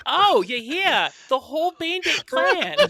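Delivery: high, slow gossiping local; drawn-out, high gossip voice; gossipy townsfolk voice. Acted.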